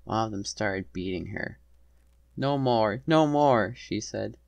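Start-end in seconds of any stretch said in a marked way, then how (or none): 2.4-3.7 high, distressed begging; pitched-up, desperate plea; pleading. A narrator's reading. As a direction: beg them to stop. Beaten attendant begs attackers to stop.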